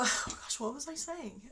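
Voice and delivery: softly choked up, words catching; holding back happy tears; real tearful fluster; teary. Real, not acted. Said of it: "I'm gonna cry".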